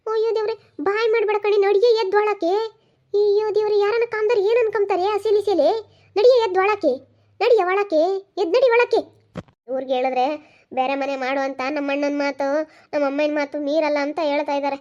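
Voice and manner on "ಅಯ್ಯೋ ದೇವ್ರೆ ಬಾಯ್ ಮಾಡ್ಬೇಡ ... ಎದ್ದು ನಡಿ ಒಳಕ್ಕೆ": high, loud nagging orders to get inside; scolding shout. Acted. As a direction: yell at the daughter-in-law to go in. Mother-in-law scolds, orders inside. (ಜೋರಾಗಿ ಗದರಿಸುವ ಧ್ವನಿ)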